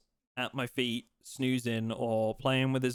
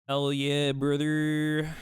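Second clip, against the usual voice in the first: hype shout; 6 dB louder, much slower than usual. Real, not acted. Hyped reaction to chat redemption.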